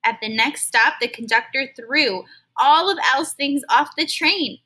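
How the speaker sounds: expressive read-aloud storytelling; storybook narrator reading to kids; story narration. Acted. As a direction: read it to a class like a picture book. Reads a story to children.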